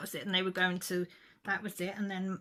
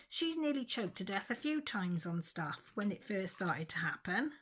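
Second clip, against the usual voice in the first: mild retold anger; 3 semitones higher than usual. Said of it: "Well, I lost it".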